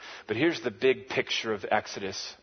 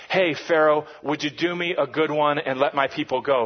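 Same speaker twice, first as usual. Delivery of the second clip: casual request; 5 dB louder than usual. Retold or imitated. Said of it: "Moses isn't just saying".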